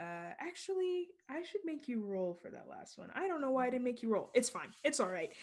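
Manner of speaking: a guard giving up, half to himself; muttering guard. Acted. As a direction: back off under your breath.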